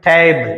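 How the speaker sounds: strong opening టే in టేబుల్, light ending; stress on first syllable. Shown as a demonstration. Teacher demonstrating word stress on the first syllable of టేబుల్. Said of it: "talk ఎక్కువ stress ఇచ్చాం".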